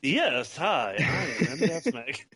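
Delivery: a botched attempt at an Iowa accent, quickly abandoned; failed Iowa accent. Introducing himself as co-host in a bad Iowa accent. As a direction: try the Iowa accent and lose it. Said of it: "I can't fucking do that accent".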